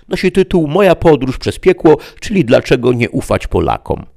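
high, loud presenter demon; a demon host taking charge; officious devil voice. Acted. Host demon interviews Mefisto.

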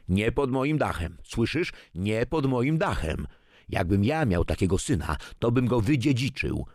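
seething anger. A narrator's reading. Grandfather forbids such friends under his roof, seething. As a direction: lay down the law, blood boiling. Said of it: "poczuł, jak krew się w nim gotuje".

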